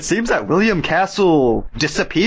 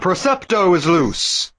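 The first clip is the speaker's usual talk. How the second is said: put-on old supervillain; 3 semitones higher, slower than usual. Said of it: "It just sounds like an old supervillain".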